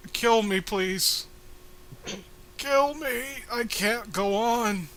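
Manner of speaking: slow, hammed-up pleading for death; mock despair. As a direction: beg to be put out of misery, theatrically. Voicing a suffering character.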